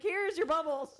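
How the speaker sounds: put-on high laughing baby talk. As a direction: coo it to a toddler. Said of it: "I'm like".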